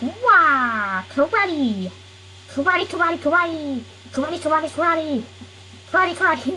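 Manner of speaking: high excited martial arts yell; squeaky karate-kid war cry; karate battle cry. Acted. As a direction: shout it like a kid doing karate moves.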